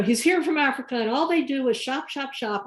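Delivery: lightly voiced gossip, Southern accent mostly dropped; chatty elderly woman. Elderly woman rambling to a caller, lightly imitated chatter. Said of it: "I won't do a bad Southern accent".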